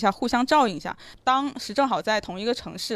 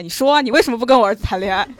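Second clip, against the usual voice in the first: mild mock yell; 6 dB louder, faster than usual. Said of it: "很大声地吼".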